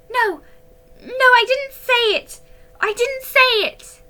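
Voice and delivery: high, loud frantic denial; frightened girl taking it back; panicked denial. A narrator's reading. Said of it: "corrected herself".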